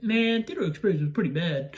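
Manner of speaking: lightly put-on friend's voice; imitating a friend. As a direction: mimic your friend's way of talking, drawing out the first word. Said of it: "That's how he talks".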